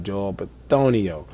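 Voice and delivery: lightly put-on Italian accent. Gamer reading off guard names, playful Italian accent. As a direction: say the name with a hint of Italian accent. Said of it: "said it in an Italian accent".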